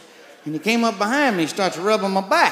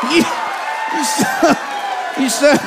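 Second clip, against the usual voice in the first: sputtering shout; 5 semitones higher than usual. Acted.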